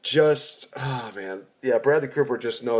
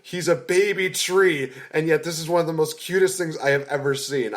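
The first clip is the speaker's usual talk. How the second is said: gushing; 5 semitones higher than usual. Retold or imitated. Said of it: "I literally just broke down".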